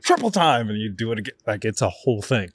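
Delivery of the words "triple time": teacher's call. Retold or imitated. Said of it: "And he's like".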